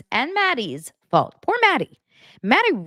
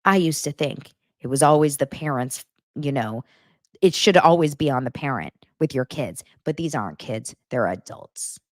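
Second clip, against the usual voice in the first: lower, pompous mock voice; mocking Cody; 4 semitones lower than usual. Vlogger imitating Cody excusing himself, lower pompous. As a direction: drop it down, self-important. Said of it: "He goes".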